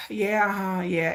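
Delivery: sigh, then low, dismissive agreement; exasperated friend. Retold or imitated. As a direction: imitate a fed-up friend half listening. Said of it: "hear the exasperation in her voice".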